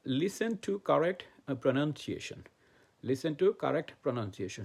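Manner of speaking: very slow, word by word, like dictating to a class; slow dictation. Shown as a demonstration. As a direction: spell each word out slowly for learners. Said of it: "teacher dictating key phrase". (ধীরে ধীরে শিক্ষক শ্রুতিলিখন করাচ্ছেন)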